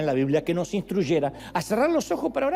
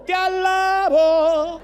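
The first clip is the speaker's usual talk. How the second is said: drawn-out praise; 10 semitones higher, 6 dB louder, much slower than usual. Pretend. Climax of empty praise.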